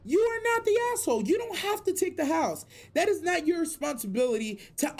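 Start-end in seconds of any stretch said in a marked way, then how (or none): 0.1-2.7 emphatic. Real, not acted. Repeats verdict emphatically.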